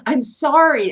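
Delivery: high-pitched imitated apology; retold apology. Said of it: "Alec going".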